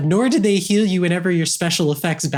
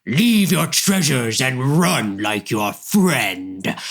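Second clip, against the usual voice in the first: dopey cartoon bellow; 2 semitones lower than usual. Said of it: "turns back to Brig and Charlie to go".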